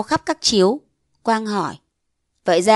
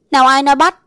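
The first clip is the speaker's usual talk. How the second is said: flustered denial; 5 semitones higher, 7 dB louder, faster than usual. A narrator's reading. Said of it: "cuống quýt chối".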